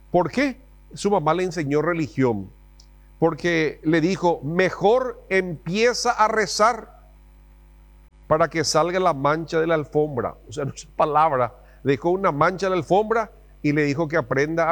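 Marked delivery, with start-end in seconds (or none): 4.4-10.4 lightly voiced stern mom; threatening mom. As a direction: warn him like an angry mother. Mom's threat, acted.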